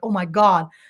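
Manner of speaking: weeping, tearful outburst through sobs. Retelling walking home from school while job hunting: retelling own crying. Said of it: "I was just crying, and I was crying like".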